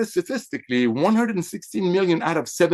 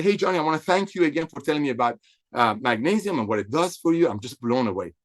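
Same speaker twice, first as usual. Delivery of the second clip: polite; 2 semitones lower than usual. Shown as a demonstration. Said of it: "and be very polite".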